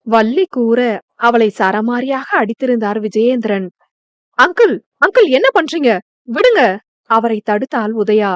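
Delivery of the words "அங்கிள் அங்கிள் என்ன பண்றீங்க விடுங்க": high, fast, urgent plea; a young woman crying out to stop an uncle; alarmed pleading. Acted. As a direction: rush in to stop the beating. Girl stops man hitting wife.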